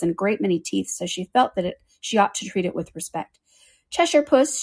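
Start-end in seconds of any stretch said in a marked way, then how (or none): 3.9-4.6 high, tentative address; a touch of shyness, pitched up; rather timid. A narrator's reading. Alice first addresses the Cheshire Cat, rather timid. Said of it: "she began rather timidly".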